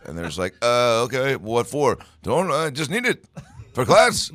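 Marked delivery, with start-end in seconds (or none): 0.6-2.0 mock puzzled office worker. Office worker answering prank call. 2.2-4.3 high pitched insistence breaking into laughter; laughing, high insistent teacher. Retold or imitated. Prank caller insisting, laughing.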